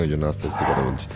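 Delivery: low hushed voice so the quiet hotel isn't disturbed; speaking softly. Real, not acted. To viewers in a silent breakfast room, hushed and soft. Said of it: "জোরে জোরে বেশি কথা বলতে পারছি না".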